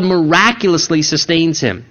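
"miraculously" leaned on at its second syllable; stress on miraculously. Shown as a demonstration. Preacher explaining Moses' forty-day fast, stressing "miraculously". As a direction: put the emphasis on "miraculously". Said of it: "I emphasize the word".

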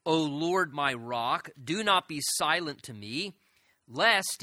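slow, measured psalm reading; scripture reading. A narrator's reading. Preacher reads David's plea to God aloud, slow scripture reading. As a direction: read it out with weighty, drawn-out phrasing.

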